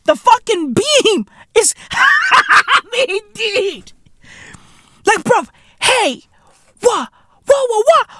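high, laughing cries of disbelief. Real, not acted. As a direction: laugh through it in shocked amusement.

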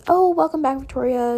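mock nice. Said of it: "She's being nice for no reason".

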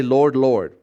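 "Lord, Lord" said with exclamation force; emphatic repetition. Shown as a demonstration. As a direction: lean hard on both "Lord"s. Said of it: "like that".

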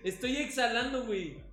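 talking while holding smoke in; holding breath. Real, not acted. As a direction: hold the smoke and talk. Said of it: "no estoy respirando".

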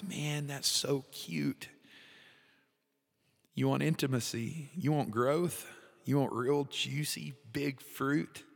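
lightly voiced God, amused and tender; God's tender voice. God answering the eager believer, lightly voiced gentle tenderness. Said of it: "And God says".

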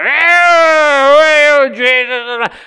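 hammed-up high, loud wail; freaking out. Possessed man crying out at Jesus, acted high wail. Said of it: "You're freaking out 'cause this guy".

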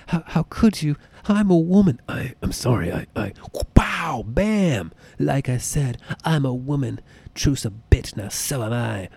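a hint of Catwoman, lightly voiced; half-hearted villainess purr; Catwoman impression. Quoting Batman Returns, light Catwoman impression. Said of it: "reminds me of Batman Returns".

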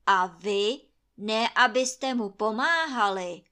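loud, stern judgment; Krakonoš sentencing Trautenberg; stern scolding. Acted. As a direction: lay down the punishment.

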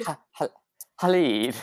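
trying "Khalid" with a breathy throaty H; attempted throaty start. Shown as a demonstration. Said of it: "it's a throatiness".

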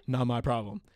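offhand retold brush-off; unbothered, understated dismissal; dismissive refusal. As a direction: brush them off like indifferent staff. Quotes staff refusal before mocking it.

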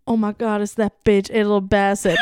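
shouting "Angela Bassett" from the couch with a falling end; excited shout. Shown as a demonstration. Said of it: "okay, I should say".

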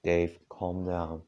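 slow, stern command; firm and slow, reining him in; strict. Acted. Rose slowly and firmly tells Dave to calm down, stern. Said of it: "Rose said strictly".

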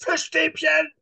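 put-on high, loud small-child wail; imitated child's shrill outburst; little daughter. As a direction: demand it like a tearful four-year-old. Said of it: "meine kleine Tochter zeigt auf die Fischstäbchen".

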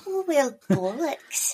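mock your own cringey recording; exaggerated nasal send-up; nasal catchphrase.

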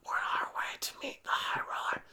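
whispered spy radio call; whispering. Acted. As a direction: hush it like a covert agent.

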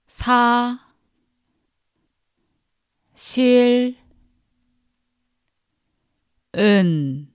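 사, 실, 은 each syllable said alone with long pauses. Shown as a demonstration. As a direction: split 사실은 into single syllables for repeating. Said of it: "break it into syllables so that you can repeat after me".

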